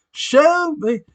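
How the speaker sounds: high, loud movie-quote shout; Jerry Maguire. Retold or imitated. Fan quoting Jerry Maguire to viewers, high loud shout. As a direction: belt it like the famous movie line. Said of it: "have you seen Jerry Maguire?".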